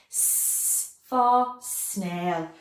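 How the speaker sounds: very slow, stretching S for snail; slow sounding out. Shown as a demonstration. Teacher sounding out for the class: very slow S for snail. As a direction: drag the S out so they hear it. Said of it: "I can hear it".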